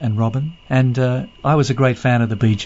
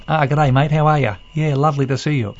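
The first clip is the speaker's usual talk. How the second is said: a light imitation of a casual Aussie "g'day, mate"; breezy, matey off-air chat, lightly voiced; 2 semitones higher than usual. Imitating the race caller's casual off-air greeting, breezy. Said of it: "away from the microphone, it was".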